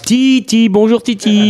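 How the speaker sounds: excited greeting. Real, not acted. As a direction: call out his name gladly. Host greets Titi fondly.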